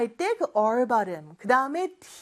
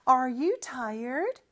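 slow model reading; much slower than usual. Shown as a demonstration. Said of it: "이렇게 발음합니다".

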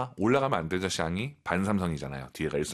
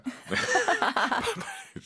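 high, bursting laugh; joking laugh. Real, not acted. Teacher after teasing the colleagues, joking laugh. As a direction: burst out laughing at your own joke.

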